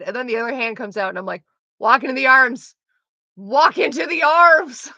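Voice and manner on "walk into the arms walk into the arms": loud, higher shout at the screen, building; urgent urging. Retold or imitated. Watching a film with boyfriend, urging the heroine on, loudly. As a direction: yell it like coaching the heroine, stretching the repeat.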